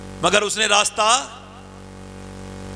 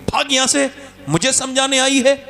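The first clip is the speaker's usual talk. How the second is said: higher, harsh shout-like order; angry dismissal; 5 semitones higher than usual. Retold or imitated. Chaudhary driving his daughter away, angry higher yell. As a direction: drive her away. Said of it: "दूसरी लात मारी".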